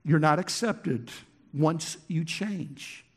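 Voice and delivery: "once you change" slowed right down; weighty, deliberate stress; emphatic slow take. Shown as a demonstration. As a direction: drag out "once you change" to make it sink in. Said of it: "This is so important".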